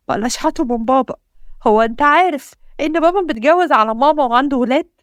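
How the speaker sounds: tearful outburst. Acted. Wife's tearful outburst at husband.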